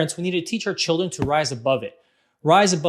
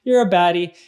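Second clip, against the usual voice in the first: teasing; 4 semitones higher, 4 dB louder than usual. Retold or imitated. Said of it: "having a fun".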